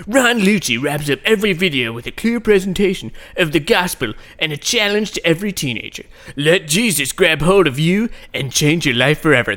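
lightly put-on teen promo voice; promo announcer voice. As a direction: read it like a cheesy video ad. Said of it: "not actually a California teenager voice".

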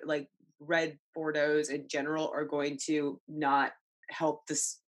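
burpy, holding back a burp; talking through a burp mid-drink; while sipping a drink. Real, not acted. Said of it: "I'm a little burpy today".

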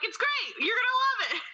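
high-pitched pushy positive spin; spin doctor. Pretend. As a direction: sell it hard, way up high. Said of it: "spin everything to be positive".

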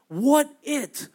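high, puzzled "What it?" said as a question. Shown as a demonstration. Pastor explaining what manna means, puzzled question. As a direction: ask "What it?" up high and wondering. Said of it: "Man or man equals what".

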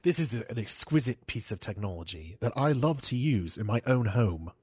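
lightly voiced product-video narrator; Johnny Ive. Imitating the designer's product intro video, silky British voice. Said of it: "that was pretty good".

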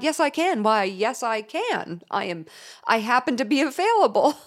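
high, over-keen mock enthusiasm; eager supermom. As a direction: play the thrilled available mom. Eager supermom answering school.

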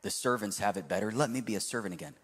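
low, quick recital of a prepared apology; reading aloud. Retold or imitated. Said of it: "So he starts reading".

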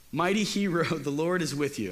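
reading "Mighty hero" and breaking into a real laugh on "the Lord"; a real laugh breaks into "the Lord is with you"; laughing while reading. Real, not acted. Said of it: "I'm sorry for laughing".

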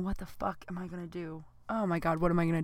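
panicked inner thought. Retold or imitated. Lying in pee at night, soft panicked thinking. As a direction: mutter the panic to yourself.

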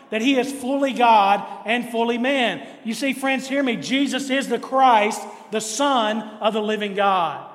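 rising preacher's cadence, stressing is each time; building sermon proclamation. Acted. Pastor declaring who Jesus is to the church, ringing proclamation. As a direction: proclaim it, line after line, with growing fervour.

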